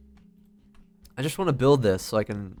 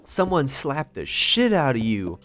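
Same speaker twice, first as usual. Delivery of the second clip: mocking high school guy; 6 semitones higher, 5 dB louder, slower than usual. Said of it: "and he was like".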